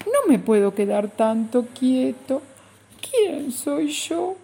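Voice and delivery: high, lost stutter; small creature asking who it is; stammering. Acted. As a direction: stumble and plead. Bichito lost, stammers again.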